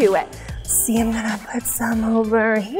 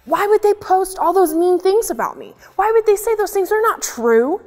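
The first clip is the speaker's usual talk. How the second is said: upset puppet; 4 semitones higher than usual. Acted. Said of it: "it's just so easy to be so mad".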